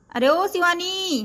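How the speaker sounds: high, slow call across the house; husband calling his wife from another room, slow and high. Acted. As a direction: drag out the ओ to reach her.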